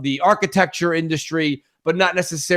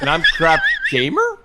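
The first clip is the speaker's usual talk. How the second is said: laughing question. Real, not acted. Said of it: "do that again, and then at the end".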